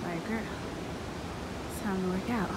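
winded, words between breaths; breathless after walking. Real, not acted. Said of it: "I'm real out of breath".

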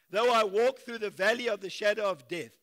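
booming scripture reading; declaiming loudly. Acted. Preacher reading the psalm aloud, booming. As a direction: proclaim the verse loudly to the congregation.

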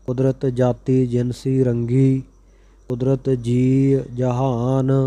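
measured, even chanting of sacred verse; scripture recitation. Acted. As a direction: recite each line steadily, phrase by phrase. Recites scripture verses between explanations.

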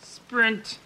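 high excited cry of sprint; excited command. Pretend. Player urges dragon man to run, high and excited. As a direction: yell it high like urging a mount. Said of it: "Or sprint".

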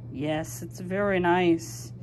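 a calm reply from a big creature; low gentle voice. Acted. Another character agrees softly.

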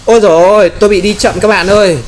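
loud, high wail of dismay; frustrated exclamation. Real, not acted. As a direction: cry out in dismay at being slowed. Slowed down mid-fight, exclaims. (than thở thất vọng, cao và to)

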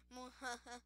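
soft mock muhaha; a quick hammed-up villain cackle; evil villain laugh. Player hamming up an evil villain laugh. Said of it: "Like one of those evil villains".

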